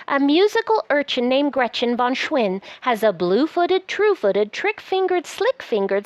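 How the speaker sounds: lively, sing-song picture-book reading; reading to children. Acted. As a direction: read it aloud like a bedtime book. Reads the book aloud.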